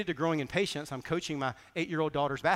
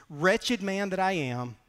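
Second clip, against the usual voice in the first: slow lament; 3 semitones higher, slower than usual. Acted. Reading Paul, lament.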